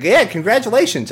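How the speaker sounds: high, loud little cheer; hammed-up game fanfare, pitched well up; mock congratulations. Game praising the bug catcher, high mock cheer.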